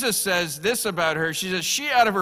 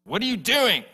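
mock snorting disciples; 5 semitones higher, 4 dB louder than usual. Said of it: "they snorted at her".

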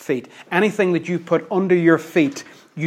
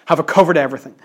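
louder, more open repeat of the question; Paul checking himself; 3 dB louder, much faster than usual. Retold or imitated. Paul checking he left nothing out, questioning aloud. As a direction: ask it out, fuller than a private thought. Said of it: "imagine him pausing ... and thinking".

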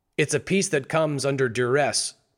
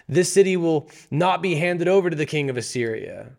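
mocking impression; 4 semitones higher than usual. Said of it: "doing a mocking impression".

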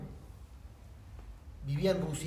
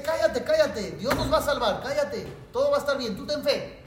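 urgent hush; 6 semitones higher, 5 dB louder than usual. Retold or imitated. Rabbi hushing friend under bodies.

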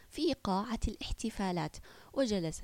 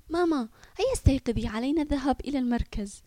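higher, louder, fast urging; eager wake-up call; 4 semitones higher, 5 dB louder, faster than usual. Acted. Boy waking his mother for the visit, eager. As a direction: hurry her awake with eagerness.

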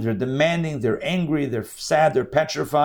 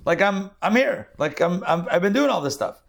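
husband's voice pitched higher, half-acted disbelief; baffled husband; 5 semitones higher, faster than usual. Husband answers wife of thirty years, higher, mildly baffled. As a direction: lightly play the hurt husband who can't believe the question. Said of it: "Like, he's like".

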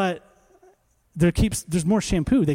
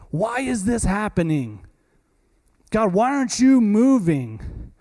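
mock complaining believer; 4 semitones higher than usual. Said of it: "When God's saying".

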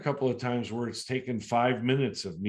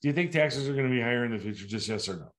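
quick to the point; faster than usual. Shown as a demonstration. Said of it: "I wanna get to the point".

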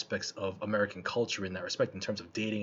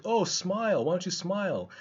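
catcaller; 7 semitones higher than usual. Retold or imitated. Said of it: "they're like".

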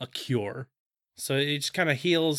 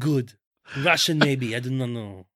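slow, wobbly attempt at a French accent; muddled French-sounding foreign accent; attempted accent, coming out French. Shown as a demonstration. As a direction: fumble for a Russian accent and land on French. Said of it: "That's French".

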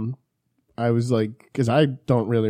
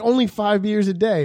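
imitating producer Dave; 7 semitones higher than usual. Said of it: "He's like".

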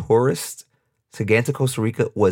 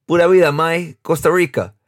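lightly voiced local man, brighter and louder; friendly farewell; 7 semitones higher, 4 dB louder than usual. Ticket clerk teasing a tourist as he leaves, cheery mock farewell. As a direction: toss off a cheery goodbye to a customer. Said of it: "he goes".

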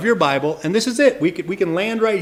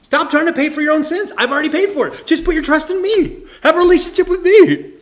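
high, loud, pleading call to stop; fervent voice of Jesus, pitched up and loud; Jesus speaking; 8 semitones higher, 8 dB louder than usual. Acted. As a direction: cry out with urgent love. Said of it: "That's what Jesus says".

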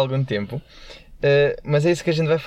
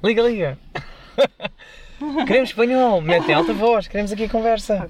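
excited; 8 semitones higher than usual. Real, not acted. Eager to hear Spanish call.

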